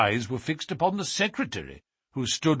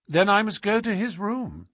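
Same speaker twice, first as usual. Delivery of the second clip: higher-pitched, unyielding insistence; cold, inexorable; 11 semitones higher than usual. A narrator's reading. Holmes overrules the secretary barring the Duke's room, coldly inexorable. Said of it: "Holmes's cold and inexorable manner".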